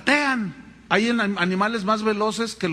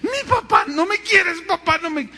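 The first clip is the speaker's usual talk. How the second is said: put-on whiny crying child; 10 semitones higher, 5 dB louder than usual. Pastor imitating a crying child who feels unloved. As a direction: wail it like a spanked little kid. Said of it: "Entonces el niño chilla".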